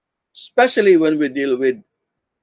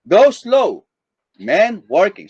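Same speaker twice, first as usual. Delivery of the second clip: "Go slow" as one phrase, then "man working"; pause after "Go slow"; 2 semitones higher, 3 dB louder, slower than usual. Shown as a demonstration. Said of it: "depending on how you say it".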